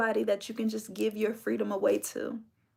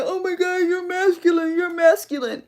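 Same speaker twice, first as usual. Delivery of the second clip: mock shocked voice, higher and louder; mocking quote; 6 semitones higher, 5 dB louder than usual. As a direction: parrot them in a put-on voice. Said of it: "So when y'all be saying".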